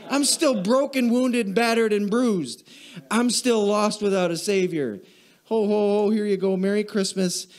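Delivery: hammed-up holiday cheer with a laugh; mock jolly. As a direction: poke fun at empty Santa cheer. Mocking shallow holiday cheer.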